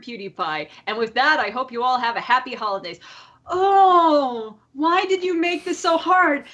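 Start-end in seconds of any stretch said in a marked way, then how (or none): 3.5-6.5 higher-pitched, dramatic complaint; playful anguished protest. Real, not acted. Podcaster agonizing over a fuck, marry, kill question, playful protest. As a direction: wail it a little, mock-tormented by the choice.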